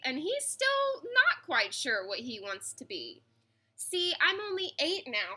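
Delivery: put-on lively read-aloud for children, rhyming bounce; story narration. A narrator's reading. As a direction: read it like a bedtime picture book. Reads picture book aloud.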